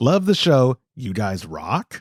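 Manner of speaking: slow, deliberate read-out, each word one at a time. Reading a listener's question sign-off aloud: Ron Burgundy voice. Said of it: "read it like Ron Burgundy".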